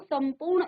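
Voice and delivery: संपूर्ण with m before पू; teacher reading out संपूर्ण; pronunciation demonstration. Shown as a demonstration. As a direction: sound the m in संपूर्ण. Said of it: "इसको पढ़ेंगे".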